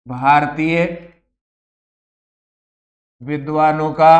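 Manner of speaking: each word alone, long pauses between; slow dictation. Shown as a demonstration. Teacher dictating to students, word by word. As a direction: spell out परंपरागत भारतीय विद्वानों का मत for note-taking. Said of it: "teacher dictates word by word".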